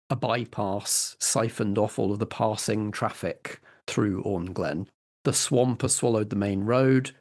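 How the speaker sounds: calm, measured scene-setting narration; a storyteller describing a dying town; game master's scene setting. Acted. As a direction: paint the bleak town for the players.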